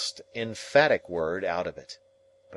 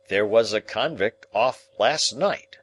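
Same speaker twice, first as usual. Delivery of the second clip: aloud; 3 semitones higher, 4 dB louder than usual. Acted. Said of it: "said Joe aloud".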